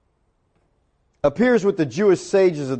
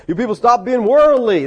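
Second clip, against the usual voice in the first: raised, louder scolding preacher; preaching; 5 semitones higher, 4 dB louder than usual. Acted. Preacher telling off his worldly people, mock preaching. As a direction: lay into the congregation like a preacher. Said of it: "This is a preaching verse".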